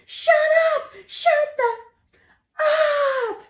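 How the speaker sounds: high yelled shut up; sister's scream. Retold or imitated. Sister woken at night, yelling. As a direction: snap it like an angry sister. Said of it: "She screams".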